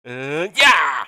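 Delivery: excited shout. Real, not acted. Cheering on his own attack.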